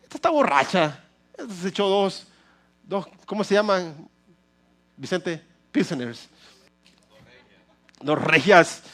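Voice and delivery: a hint of a stern priest shooing her off; lightly voiced priest mocking her as drunk; scolding priest Eli. Pastor voicing Eli accusing Ana of being drunk, lightly scornful. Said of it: "vio y le dijo".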